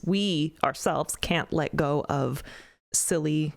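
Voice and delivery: ordinary talk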